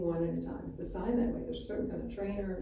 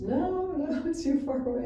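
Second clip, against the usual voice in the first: owner refusing; 8 semitones higher, 5 dB louder than usual. Retold or imitated.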